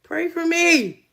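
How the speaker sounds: no teeth, lips slack on every word; toothless. Real, not acted. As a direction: talk with your teeth taken out. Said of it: "let me take my teeth out".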